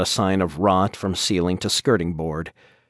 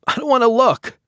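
panicked high-pitched yell; 5 dB louder than usual. A narrator's reading. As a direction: cry it out, squeamish and scared. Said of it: "he yelled at her".

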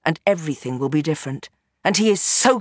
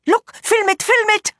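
high, excited cry; urgent calling out; 4 dB louder than usual. A narrator's reading. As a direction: call out urgently while on the run. Urging him while running from explosion.

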